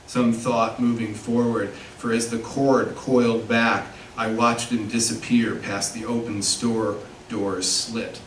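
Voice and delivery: measured literary reading, phrase by phrase; poetry reading. Acted. Poet reads a filling station poem to an audience, measured poetry reading. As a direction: read the poem deliberately, pausing at line breaks.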